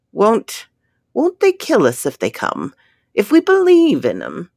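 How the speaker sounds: high, rising, frightened questions; fearful. A narrator's reading. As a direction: voice him tense and scared. Frightened man questions the plan.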